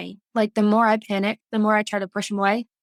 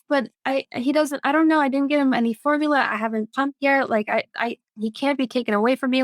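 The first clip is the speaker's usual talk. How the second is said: retold panic; 4 semitones higher, faster than usual. Retells panic about losing baby.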